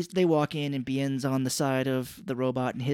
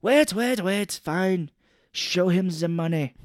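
higher, louder put-on villain voice; robot guy; 4 semitones higher, 4 dB louder, slower than usual. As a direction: play the robot boss halting an argument. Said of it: "the robot is like".

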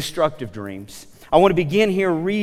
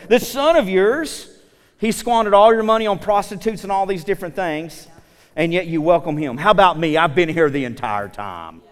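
resentful brother. Retold or imitated. Angry older brother voiced.

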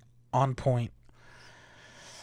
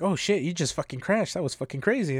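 Ron Burgundy style; 4 semitones higher than usual. Retold or imitated. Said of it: "Ron Burgundy style".

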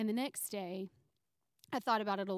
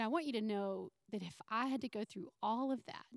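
tearful. Real, not acted. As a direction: voice close to tears, whispering at times. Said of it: "and I'm gonna try not to cry".

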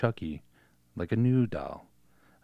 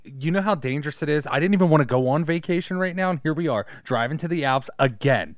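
high, loud whiny complaints; whiny complaining wife; 5 semitones higher, 6 dB louder than usual. Pretend. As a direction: nag like a fed-up wife. Wife complaining in car scene.

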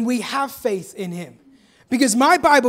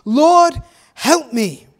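a loud cry of "Lord" that settles on "help me"; a pleading cry for help; 3 semitones higher, 5 dB louder, much slower than usual. Retold or imitated. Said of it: "cry out to Jesus".

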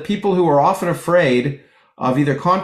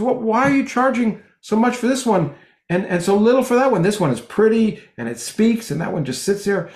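indignant customer; 7 semitones higher than usual. Retold or imitated. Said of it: "And he goes".

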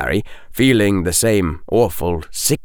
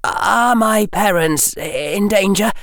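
put-on young boy voice; 11 semitones higher than usual. Harry asking anxiously.

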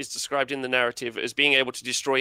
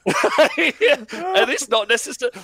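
slow, high words through laughter; laughing; 10 semitones higher, 5 dB louder, slower than usual. Real, not acted. Host mocking his own bad army, laughing high and slow. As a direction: giggle it out, half singing.

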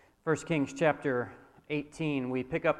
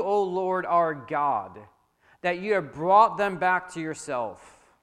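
prayed; 4 semitones higher, 7 dB louder than usual. A narrator's reading. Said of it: "walked up to the altar and prayed".

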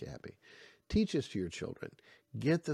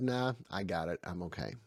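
proud brush-off; 4 semitones lower than usual. Retold or imitated. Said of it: "young guy in his pride says".

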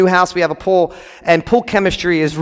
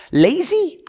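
sneering Pharaoh; 9 semitones higher than usual. Retold or imitated. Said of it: "he calls them".

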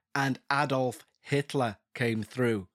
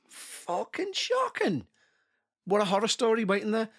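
fast, high and eager; excited; 7 semitones higher than usual. Real, not acted. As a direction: rush it out, thrilled. Reacts to shocking story.

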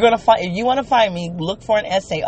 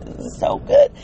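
delighted squeal. Real, not acted.

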